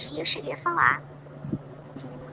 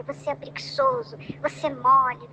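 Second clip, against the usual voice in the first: mock criticism. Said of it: "você tá criticando ele".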